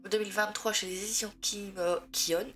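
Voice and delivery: speaking with a stuffed-up nose; congested nose, a cold; blocked nose. Real, not acted. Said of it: "Désolée, j'ai le nez bouché".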